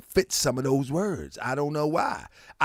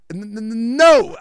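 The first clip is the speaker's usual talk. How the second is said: imitated stutter; 4 semitones higher, 5 dB louder than usual. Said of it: "He said".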